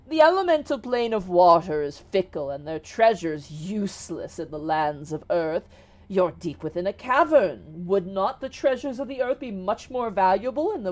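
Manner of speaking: lightly voiced, ingratiating salesman genie; a hint of smooth customer-service flattery. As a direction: lay on polite persuasion with lilting emphasis. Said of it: "goes back into his customer service voice".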